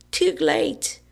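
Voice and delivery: high gleeful shout through a mouthful; yelled while chewing. A narrator's reading. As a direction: crow it out mid-chew. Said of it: "Billy yelled, still chewing".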